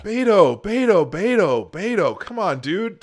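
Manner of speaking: high, loud repeated name, sing-song protest; exasperated calling out. Real, not acted. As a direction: call him off, pleading in exasperation. Calling out to interrupt clip speaker.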